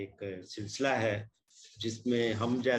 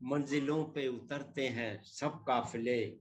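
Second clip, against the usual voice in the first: poem recitation; 2 semitones higher than usual. Acted.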